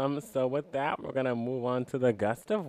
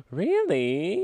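shocked gasp; 7 semitones higher than usual. Real, not acted. Reacts to friend hating video.

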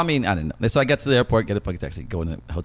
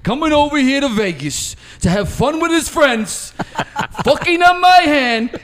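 much higher, slow, laughing mock rant; livid gambler; 14 semitones higher, 4 dB louder, slower than usual. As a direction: rage at the clueless kid. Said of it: "some fucking guy was just livid".

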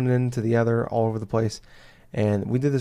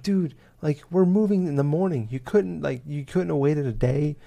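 exasperated; 5 semitones higher than usual. Retold or imitated. Retold exasperation at the dog.

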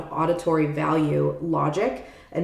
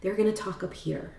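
slightly raised pitch, softer voice; higher-pitched; 3 semitones higher, 6 dB quieter than usual. Shown as a demonstration. Teacher shows where visual thinkers talk, slightly higher-pitched. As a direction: lightly demonstrate talking up high. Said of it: "their voice is higher pitched".

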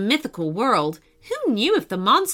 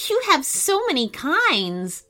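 put-on higher, bright girl's voice; young girl voice; 6 semitones higher than usual. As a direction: voice the little mermaid girl.

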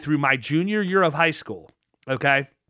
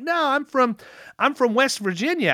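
higher-pitched voicing of a friendly stranger; higher, drawn-up quoted answer; retold stranger's reply; 9 semitones higher than usual. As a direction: lightly act out the other man's correction. Retells stranger correcting his guess.

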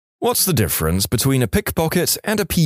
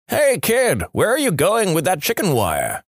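mock yelling; 8 semitones higher than usual. Old man on porch calls to kid, mock yell. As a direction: call to a passing kid in a raised pitch. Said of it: "The old guy yells out".

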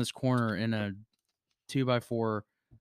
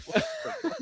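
shocked disbelief; 4 dB quieter, faster than usual. Retold or imitated. Friends shocked by stranger.

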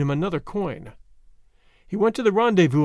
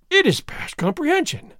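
high astonished exclamation; exclaiming; 10 semitones higher than usual. A narrator's reading. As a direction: cry it out in disbelief. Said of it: "Don Diego exclaimed".

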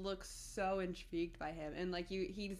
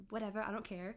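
put-on Kiwi accent. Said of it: "for that wonderful Kiwi accent".

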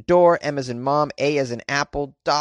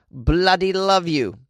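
higher, slow mock British accent; put-on UK accent; 6 semitones higher, 3 dB louder, slower than usual. Host reading a UK listener's card, mock British accent. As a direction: read it out in a drawn-out fake British voice. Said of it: "I assume it's in that accent".

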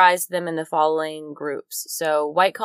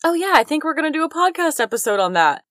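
casual self-quote; 9 semitones higher than usual. Retold or imitated. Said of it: "I've been like".

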